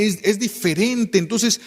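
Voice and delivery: usual speaking voice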